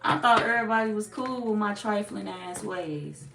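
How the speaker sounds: lightly voiced clueless culprit, indignant; mock clueless offender. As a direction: play the trifling person acting innocent. Voicing the guilty party.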